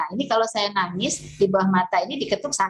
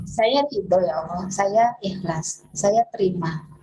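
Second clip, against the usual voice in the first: slow, earnest affirmation prayer; sincere affirmation; slower than usual. Shown as a demonstration. Teacher demonstrating a tearful prayer affirmation, sincere and slow. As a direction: say it as if surrendering. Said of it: "sambil saya mengatakan".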